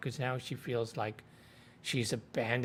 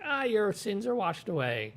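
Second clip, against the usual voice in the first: higher-pitched mock ceremonial voice; imitated ritual pronouncement; 9 semitones higher than usual. Leandrin pronouncing over the drenched accepted, mock ceremonial. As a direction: put on a lofty cleansing-ritual voice.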